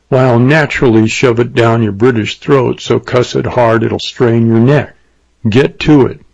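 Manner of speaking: lightly voiced cowboy, laying down a threat; understated menace from an annoyed gunslinger; riled cowboy. Bill threatens the British innkeeper.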